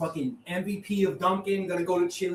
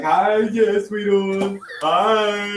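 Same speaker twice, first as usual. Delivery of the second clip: dad's greeting; 2 semitones higher, 10 dB louder, much slower than usual. Retold or imitated. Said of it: "He was like".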